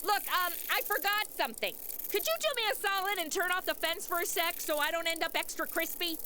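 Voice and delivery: hushed. Acted. Madison asks Quinn to cut the fence, hushed. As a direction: keep it down while asking a favour.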